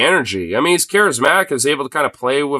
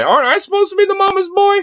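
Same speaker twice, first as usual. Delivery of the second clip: incredulous; faster than usual. Real, not acted. Sarcastic outrage at Vance.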